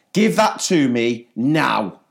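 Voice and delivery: slow, measured command; teacher laying down the law; stern teacher order. Retold or imitated. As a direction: tell the child off firmly, word by word. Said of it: "I was like".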